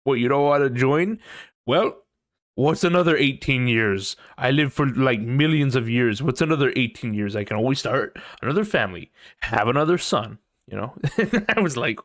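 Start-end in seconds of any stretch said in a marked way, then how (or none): 0.0-10.4 retold Omni-Man rant. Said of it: "He's like".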